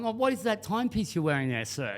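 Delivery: a light put-on British accent, asking politely. Richard Mille salesman greets a customer, in a British accent. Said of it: "in his British accent".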